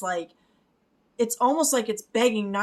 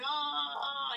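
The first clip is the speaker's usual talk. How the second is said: melting villain cry; 6 semitones higher, 6 dB quieter than usual. Retold or imitated. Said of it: "the guy when he was melting and he's like".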